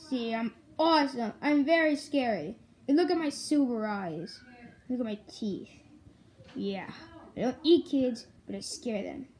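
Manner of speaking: a kid voicing a toy monster bragging about scaring; Nightmare Freddy voice.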